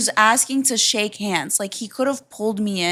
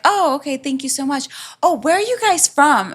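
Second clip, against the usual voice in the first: higher-pitched mock friendly stranger; imitating overfriendly stranger; 5 semitones higher than usual. Stranger in a car questioning mother and daughter, imitated chattiness. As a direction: lightly act out an overly chatty stranger. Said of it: "he was like".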